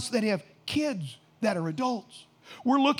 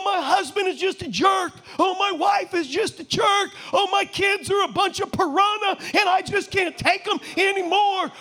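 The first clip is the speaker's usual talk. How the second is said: mock whining complaints; 6 semitones higher than usual. Mocking negative self-talk.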